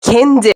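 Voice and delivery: "kendi" in the back-and-forth correction drill; emphatic "kendi"; corrected vowel. Shown as a demonstration. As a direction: say "kendi" firmly, as a pronunciation correction. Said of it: "Onu düzeltiyor hoca".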